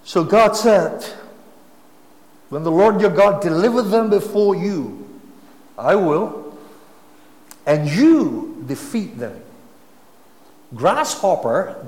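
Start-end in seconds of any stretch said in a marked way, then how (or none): 2.5-9.4 loud, high proclamation; booming voice of God. Acted. Preacher voicing God's promise to Israel, booming.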